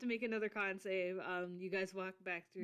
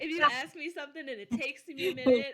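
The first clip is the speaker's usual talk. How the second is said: mouth full; 7 semitones higher, 12 dB louder than usual. Real, not acted. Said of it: "I'm chewing".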